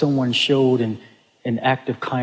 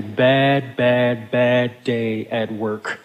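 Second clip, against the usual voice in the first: slow bad, bad, bad day at work, each bad lingered; dragged out; 2 semitones lower, much slower than usual. Shown as a demonstration. Pastor painting a rough workday for the congregation, slow. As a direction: let "bad" drag, heavy and slow. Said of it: "Anyone here ever had a bad day at work?".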